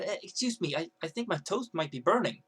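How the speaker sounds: mild, tentative polite voice; polite request. Shown as a demonstration. Girl politely telling the kiosk guy about her toast, courteous. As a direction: flag the problem courteously, no attitude. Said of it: "if she would have stood up and said".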